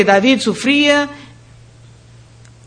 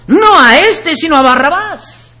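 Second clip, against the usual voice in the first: crowd shouting; 5 semitones higher than usual. Retold or imitated. Preacher voices the crowd answering Pilate, a raised mock shout. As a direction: belt out the mob's demand for Barrabás. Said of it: "todos dieron voces".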